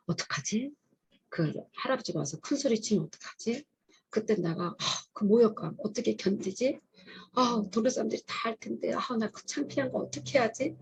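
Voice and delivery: 속으로 걱정. Retold or imitated. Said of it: "속에는 떨렸어요". (걱정스러운 혼잣말을 흉내 내듯)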